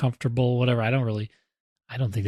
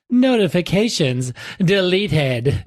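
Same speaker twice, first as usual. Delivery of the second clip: slow, stiff robot announcement; 5 semitones higher, slower than usual. Retold or imitated. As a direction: say it like a stiff assistant. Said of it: "And it says".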